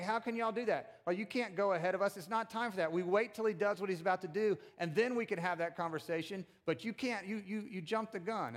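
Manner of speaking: high-pitched, aggrieved protest; mock indignant disciple. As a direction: imitate someone mad at being jumped ahead of. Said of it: "they're so mad".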